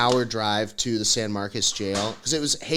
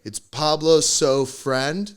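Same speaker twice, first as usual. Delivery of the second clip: slow halting read; 2 semitones higher, much slower than usual. Retold or imitated. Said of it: "the cop has to go on my Instagram and have to be like".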